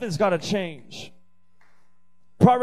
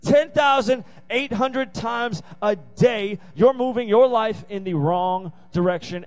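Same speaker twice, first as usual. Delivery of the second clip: preaching refrain. Real, not acted.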